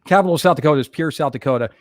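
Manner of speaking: "Pierre" said like "pier"; one-syllable "Pierre", no final R E; brisk line with "Pierre" pronounced "peer"; local pronunciation. Shown as a demonstration. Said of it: "take off the last R E".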